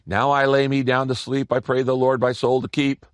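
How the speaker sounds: rote recital on an even pitch; memorized prayer. Retold or imitated. Preacher imitates people praying by habit, rote recital. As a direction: rattle off a bedtime prayer by heart. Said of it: "just a memorized prayer".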